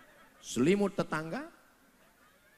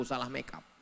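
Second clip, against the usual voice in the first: laughing; 3 semitones lower, 7 dB quieter than usual. Acted. Punchline with laugh.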